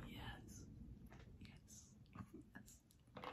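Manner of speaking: tiny, hushed whispers of yes; whispered triumph. Real, not acted. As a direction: whisper a private victory cheer, very softly. Scale shows the hoped-for weight.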